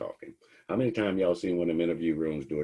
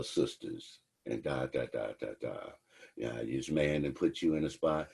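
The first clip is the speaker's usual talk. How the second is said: lower, softer sisterly coaxing; coaxing lady cop; 4 semitones lower, 3 dB quieter than usual. Acted. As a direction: sweet-talk her like a big sister.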